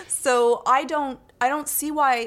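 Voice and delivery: words pushed out through laughter; laughing while talking. Real, not acted. Laughing mid-answer.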